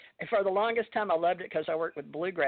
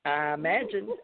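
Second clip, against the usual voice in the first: Kentucky drawl; 3 semitones lower than usual. Retold or imitated. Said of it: "So I'd say people say something".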